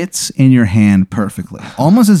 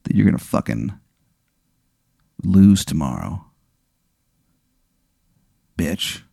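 low, soft threat with long pauses; menacing; 4 semitones lower, 6 dB quieter than usual. Acted. Rival a millimeter from your nose, menacing. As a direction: let each piece of the taunt hang, quietly.

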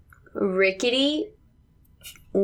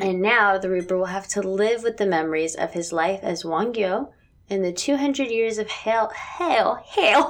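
mock ominous. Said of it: "I was trying to read it, like, really ominously".

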